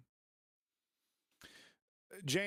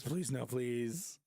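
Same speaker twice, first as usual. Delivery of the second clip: laughing plea; 3 semitones lower, much slower than usual. Real, not acted. Pleading, laughing.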